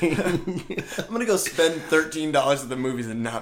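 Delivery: slow, high, laughing through words. Real, not acted. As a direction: chuckle it out. Laughing while joking about movie.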